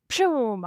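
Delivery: drawn-out "pshoom" of takeoff; imitated whoosh. Rider describing a racing horse bolting, imitated whoosh. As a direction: whoosh it like something shooting away.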